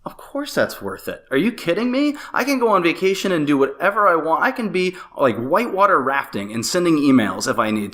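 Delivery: excited inner voice. Retold or imitated. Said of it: "And I thought".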